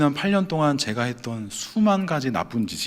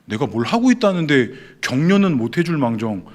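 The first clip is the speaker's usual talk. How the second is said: retold indignant grumbling; 3 semitones higher, 4 dB louder than usual. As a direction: replay an inner rant at the pastor, building in pitch. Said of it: "그 목사님 엄청 욕했어요". (속으로 욕하듯 분한 말투로)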